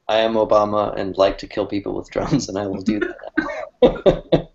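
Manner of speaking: mock-calm, even-toned Obama quote. Cartoonist imagining Obama's comic speech bubble, calmly. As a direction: state it calmly, slowing at the end. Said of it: "he would just be calmly saying".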